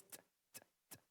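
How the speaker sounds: soft "t" with the English T sound, not the Portuguese T. Shown as a demonstration. Pastor drilling the congregation, soft English "t". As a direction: tap "t" the English way. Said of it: "O som do T em português é diferente".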